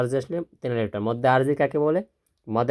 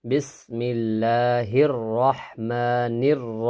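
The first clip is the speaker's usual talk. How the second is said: drawn-out Quranic chant of the words; slow recitation; much slower than usual. Shown as a demonstration. Teacher chanting Bismillah slowly for students. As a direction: recite slowly, stretching each vowel. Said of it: "Quran recitation demo".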